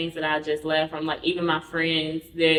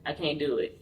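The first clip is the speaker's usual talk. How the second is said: breathless whisper; 3 semitones lower, 9 dB quieter, faster than usual. Retold or imitated. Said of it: "I was like".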